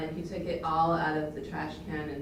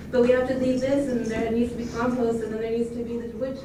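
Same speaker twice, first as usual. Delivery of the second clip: high, raised voice arguing the point; emotional pleading, retold; 8 semitones higher, 4 dB louder than usual. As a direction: re-enact your worked-up insistence. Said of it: "I was so emotional".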